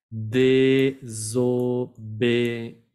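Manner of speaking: Désobéir very slow, dé-so-bé-ir; syllable by syllable. Shown as a demonstration. Teacher modelling Désobéir slowly for students. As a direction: separate each syllable of Désobéir. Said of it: "Bien pronunciar cada sílaba".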